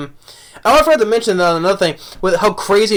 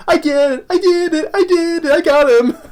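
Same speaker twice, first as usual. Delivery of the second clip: high, giddy repeated cheer; crazed triumph after a kill; manic gloating; 12 semitones higher than usual. Retold or imitated. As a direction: gloat like a madman. Villain gloating after stabbing.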